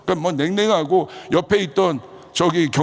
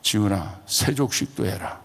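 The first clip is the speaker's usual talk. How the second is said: low, softer divine command; voice of God; 6 semitones lower, 4 dB quieter than usual. Retold or imitated. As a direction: lightly voice God giving an order, pitched down. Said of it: "그 다음 음성이 들려왔어요". (낮고 나직한 하나님 음성)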